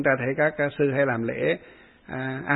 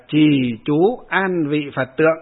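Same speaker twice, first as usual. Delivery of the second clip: recited formula; 3 dB louder, slower than usual. Shown as a demonstration. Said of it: "đọc cái câu này".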